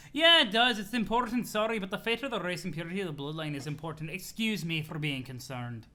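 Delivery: CA. Acted. CA insisting the bloodline matters, indignant accented voice. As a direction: retort huffily in a put-on accent. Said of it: "laughing at the C A voice".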